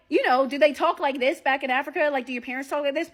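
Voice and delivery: lightly mocked clickety-clack impression; talking funny. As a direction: mimic a date's odd question, clicks at the end. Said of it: "clickety-clack noises".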